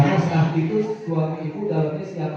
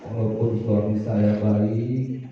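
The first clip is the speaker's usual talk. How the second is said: lightly voiced wife's humble prayer, a bit lower; wife praying to God; 3 semitones lower than usual. Wife confiding her marriage to Allah, gently pleading.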